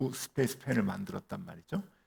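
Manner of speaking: ordinary talk, nothing marked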